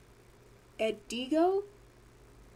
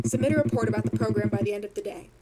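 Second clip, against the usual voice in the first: cartoon villain voice; 3 semitones lower, faster than usual. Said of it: "cartoon villain voice".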